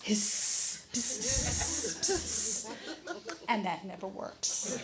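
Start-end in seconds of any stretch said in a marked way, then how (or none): 0.0-2.7 imitated cat-calling. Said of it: "from him sound like pss".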